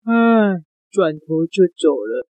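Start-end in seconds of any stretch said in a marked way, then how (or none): 0.1-0.6 acted yawning sigh; bored yawn. Bear yawning at the magician before turning away, mock yawn. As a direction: let out a drawn-out bear yawn. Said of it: "那一只大熊打了个哈欠".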